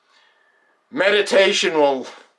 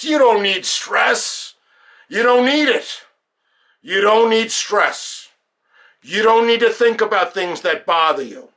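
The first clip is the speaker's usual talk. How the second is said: emphatic insistence; 7 semitones higher than usual. Acted. Coach insisting to listeners that they don't need stress, emphatic. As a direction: insist on it, pitched up.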